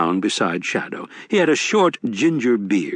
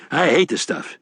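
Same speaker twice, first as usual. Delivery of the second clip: a touch higher, genial con man; sly old grifter, a bit higher; lightly voiced Wednesday; 6 semitones higher than usual. A narrator's reading.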